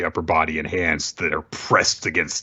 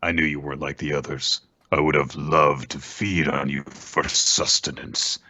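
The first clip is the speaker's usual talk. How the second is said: kaiju voice; 4 semitones lower than usual. Retold or imitated. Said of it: "And he says".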